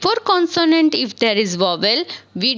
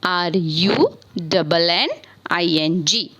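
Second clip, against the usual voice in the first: spelling out; 4 semitones lower than usual. Shown as a demonstration. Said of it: "what will be the spelling of running".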